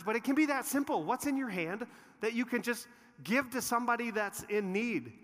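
high, loud appeal to the room; impassioned pulpit challenge; preaching challenge. Acted. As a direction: land the big question on the congregation. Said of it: "climactic challenge to congregation".

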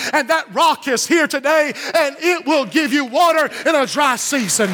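urgent pulpit proclamation; full-force preaching. Real, not acted. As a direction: preach it hard to the congregation. Preacher driving home a point.

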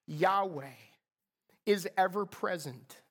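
normal talking voice

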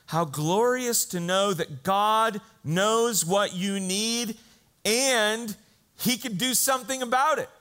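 swelling preacher's joy; exultant preaching. Real, not acted. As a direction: build to a glorious, ringing climax. Preacher's rising exultant climax.

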